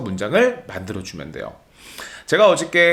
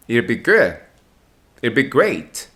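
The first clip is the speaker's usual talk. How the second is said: "good" and "great" pushed up, "It'll be" light; stress on good and great; much slower than usual. Shown as a demonstration. Teacher models the stressed ending for students to copy. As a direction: let "good" and "great" ring out. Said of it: "들리기에 good, 들리기에 great".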